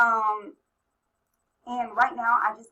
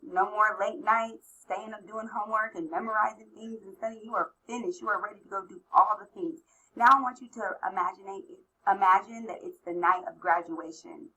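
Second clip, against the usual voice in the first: guided visualization. Acted. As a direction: gently lead them to imagine.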